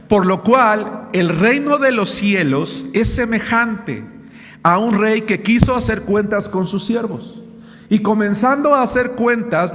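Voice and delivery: preacher reading the Gospel to the congregation, solemn; scripture reading. Acted. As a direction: proclaim the verses from the pulpit. Reads scripture aloud.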